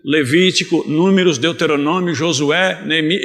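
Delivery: measured list, one name at a time; slow recitation. Shown as a demonstration. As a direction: recite each book separately and unhurriedly. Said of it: "devagarzinho assim".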